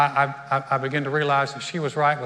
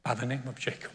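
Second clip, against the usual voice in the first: choked up. Real, not acted. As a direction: voice dropping away as emotion takes over. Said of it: "why do you get choked up".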